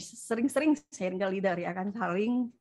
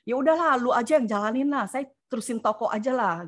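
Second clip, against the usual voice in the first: a touch of mock anger, louder, giving up; fed-up huff, mildly acted; retold angry outburst; 3 semitones higher, 4 dB louder than usual. Telling her husband to take over, mildly mock angry. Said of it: "saya marah gitu kan".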